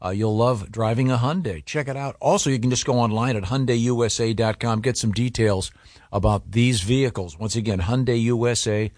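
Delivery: easy conversational host-read commercial; radio ad read. Acted. Host reads car ad.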